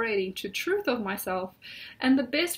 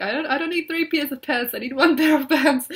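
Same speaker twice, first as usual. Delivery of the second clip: laughing; 2 semitones higher, 7 dB louder than usual. Retold or imitated. Acting out own inner voice.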